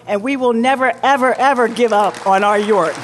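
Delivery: rousing vow. Real, not acted. Rallying climax of city speech.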